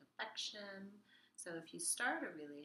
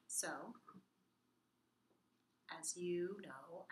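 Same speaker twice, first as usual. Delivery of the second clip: whisper; much slower than usual. Acted. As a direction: whisper evenly, no melody.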